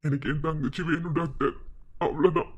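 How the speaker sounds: low, heavy-hearted plea; subdued plea. Acted. Brother begs doctor for his sister, subdued plea. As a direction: plead quietly with the doctor.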